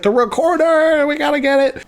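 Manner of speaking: imitated high-pitched alarm; very concerned. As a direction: act out an urgent worry. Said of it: "Jeffrey's very concerned about the recorder".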